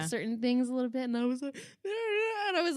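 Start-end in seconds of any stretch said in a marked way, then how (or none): 1.0-2.8 teary voice. Real, not acted.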